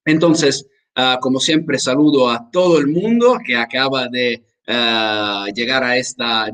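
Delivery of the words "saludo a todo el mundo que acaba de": ordinary delivery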